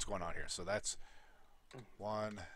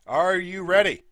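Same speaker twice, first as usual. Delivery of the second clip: announcer call; 3 semitones higher than usual. Real, not acted. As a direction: call out to the fighters before the bout. Announcer calls fighters to start.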